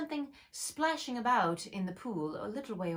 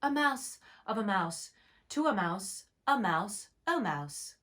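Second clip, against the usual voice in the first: reciting grammar. Acted. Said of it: "her brother's Latin grammar".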